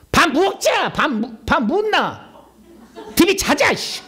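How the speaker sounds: high, loud Gyeongsang dialect bark; loud Gyeongsang impression. Preacher mimics a hot-tempered Gyeongsang husband, loud Gyeongsang accent. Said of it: "경상도 가면은요, 혈기의 영이 꽉 찼어".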